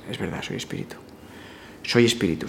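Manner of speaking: hushed, felt whisper of truth; whispered affirmation. Shown as a demonstration. Susurrándolo a uno mismo, sintiendo la presencia. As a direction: breathe it as something you really feel. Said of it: "Sientes la presencia y dices".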